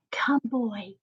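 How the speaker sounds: softly whispered, barely voiced. A narrator's reading. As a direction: whisper it, too moved to speak. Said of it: "she whispered".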